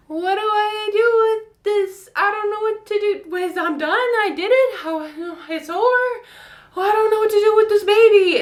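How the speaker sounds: high, loud, giggly disbelief; shocked giggly. Retold or imitated. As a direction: babble in happy shock. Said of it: "I went into shock ... giggling".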